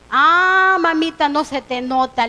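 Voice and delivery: drawn-out "ah", then a familiar jab; teasing payback. Retold or imitated. Friend returning the same remark in confidence, teasing payback. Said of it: "le respondí de la misma manera".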